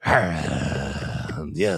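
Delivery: drawn-out mock mating call. Shown as a demonstration. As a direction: let out a long animal-like courting noise. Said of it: "it's like a mating call".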